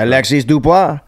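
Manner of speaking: name given a French Canadian pronunciation; French Canadian accent. Retold or imitated. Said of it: "it's French Canadian person".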